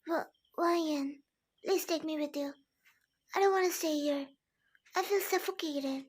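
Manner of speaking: a touch of pleading. Acted. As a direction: beg quietly to be taken away. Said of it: "with a pleading tone".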